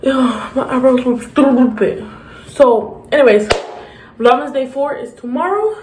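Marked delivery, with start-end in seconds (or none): 0.0-2.1 slow whispered self-mockery; hushed embarrassed aside. Real, not acted. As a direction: whisper it like a little confession.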